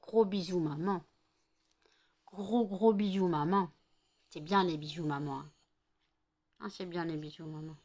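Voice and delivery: doux et tendre, un peu bas, comme à un bébé; câline son chien avec tendresse; tendre voix pour son chien. Real, not acted. Parle doucement à ses chiens. (voix tendre pour son chien)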